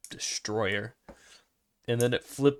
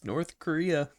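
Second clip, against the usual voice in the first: lightly voiced parent, pitched up; mock family-vacation parent; 4 semitones higher than usual. Joking parent to kids about a vacation, mock cheerful announcement. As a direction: play at rallying the kids for a trip.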